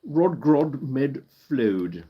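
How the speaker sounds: Danish phrase in a put-on British accent. Shown as a demonstration. Streamer tries the tongue-twister for viewers, British accent. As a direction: say it slowly, like a Brit. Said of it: "Let's say that with a British accent".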